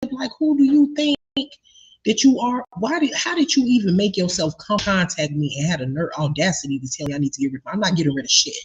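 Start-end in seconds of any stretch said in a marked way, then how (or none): 0.1-4.5 indignant outrage. Real, not acted. Indignant rant at neighbor.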